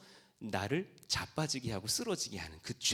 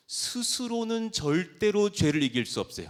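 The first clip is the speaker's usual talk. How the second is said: 절대로 punched high and loud; high, loud pulpit emphasis on 절대로; emphatic preaching; 9 semitones higher, 7 dB louder than usual. Real, not acted. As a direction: declare it forcefully, leaning hard on 절대로. Preacher drives home key point.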